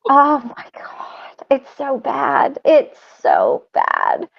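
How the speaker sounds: hushed, mortified and slow; embarrassed groan. Real, not acted. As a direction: cringe at the photo, almost whispering. Embarrassed about the awful picture.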